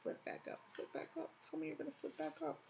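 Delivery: whispered pleading to an object; whispering. Real, not acted. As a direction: coax it under your breath. Coaxing a paper piece.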